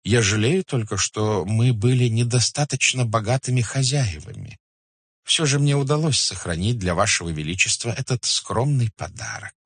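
flattering merchant, delicately raising a complaint; deferential merchant. Acted. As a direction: tread politely before the khan. (почтительный, вкрадчивый купец)

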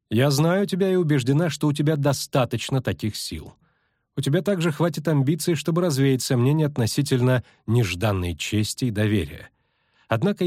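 a touch of formal persuasion; measured pitch of an invitation to a secret order; lightly voiced, composed elf envoy; lightly voiced elf sorceress. Voices elf answering firmly.

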